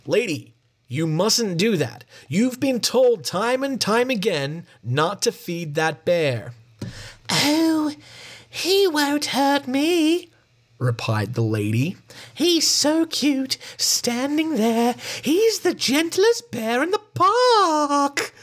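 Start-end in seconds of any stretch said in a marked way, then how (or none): 0.1-6.5 slow, stern ranger voice, a little higher; ranger's warning. Acted. Ranger warns the lady. 7.3-10.3 very high, slow falsetto lady; silly lady. Acted. The lady character speaks. 12.3-18.3 very high, slow falsetto lady; silly lady. Acted. The lady character speaks.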